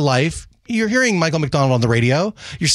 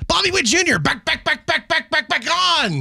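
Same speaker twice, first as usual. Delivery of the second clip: higher, slow announcer chant; home run call; 9 semitones higher than usual. Retold or imitated. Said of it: "whenever he did a home run call".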